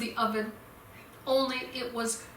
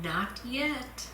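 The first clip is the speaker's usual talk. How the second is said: calm refusal; 6 dB quieter than usual. Acted. Potter refusing calmly.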